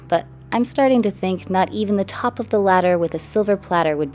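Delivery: measured, rhythmic spoken-word delivery; poem reading. Real, not acted. Artist reading her own poem about a troubled mind, poem reading. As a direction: recite in rhymed lines, punching some line openings. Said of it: "reveal and the poem reading".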